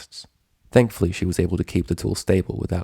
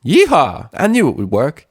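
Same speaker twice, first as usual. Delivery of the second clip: loud, high cowgirl cheer; proud country holler; boasting whoop; 8 semitones higher, 7 dB louder than usual. Acted. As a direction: whoop in triumph. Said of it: "Applejack boasted".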